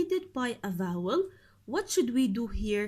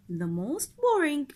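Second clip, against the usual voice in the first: loud model answer; 4 semitones higher, 5 dB louder than usual. Shown as a demonstration.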